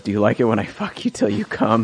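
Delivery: creepy serial-killer purr; Buffalo Bill voice. Retold or imitated. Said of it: "my Buffalo Bill voice".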